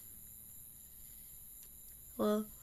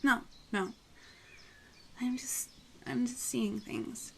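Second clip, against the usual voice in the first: shaky whisper; 3 semitones higher, slower than usual. Acted. Frightened girl reassures herself.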